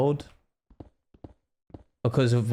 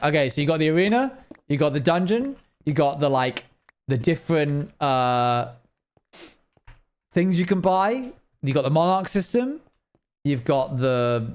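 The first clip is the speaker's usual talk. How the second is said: higher, eager rattling-off of features; listing excitedly; 5 semitones higher than usual. Retold or imitated. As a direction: rattle off everything there is to do. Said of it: "it's like".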